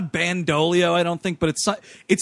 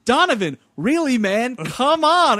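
calling out; 5 semitones higher, 4 dB louder than usual. Retold or imitated. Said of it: "he's like".

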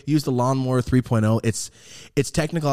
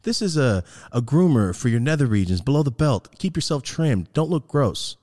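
family-friendly pitch; 3 semitones higher, 5 dB louder than usual. Shown as a demonstration. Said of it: "here's the, uh, family-friendly pitch".

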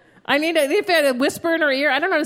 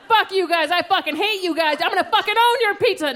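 retold yelling; 4 semitones higher than usual. Angry customer to Pizza Hut worker, retold yelling. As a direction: replay an angry phone rant for laughs. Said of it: "And I just started yelling".

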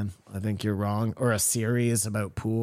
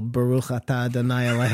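quick prayer recital; faster than usual. Pretend. Asked for some Hebrew.

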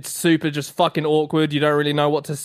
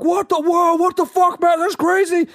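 much higher excited what the fuck; excited disbelief; 13 semitones higher than usual. Retold or imitated. Retelling a doorman recognizing him, high excited disbelief. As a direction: act amazed at being recognized. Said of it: "I was like".

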